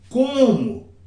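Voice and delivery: "Como" pitched high, then falling; drawn-out "Como?" starting high and sweeping down; questioning intonation. Shown as a demonstration. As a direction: demonstrate an expressive, questioning "Como?". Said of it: "a entonação".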